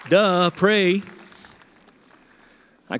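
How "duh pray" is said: mock self-scolding. Mocking his own forgetfulness.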